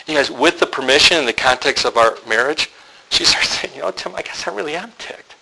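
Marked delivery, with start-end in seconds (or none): 3.8-5.4 higher-pitched, mildly tearful complaint; imitating upset wife. Wife admitting to her husband she's ticked, mock upset. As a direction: act out her hurt building up. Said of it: "Now she's crying".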